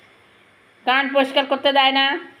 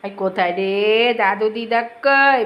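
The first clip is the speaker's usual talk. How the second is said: put-on slow, lower coaxing baby talk; 4 semitones lower, slower than usual. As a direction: draw it out to coax the pet. Baby talk asking the pet. (ধীরে আদুরে সুরে)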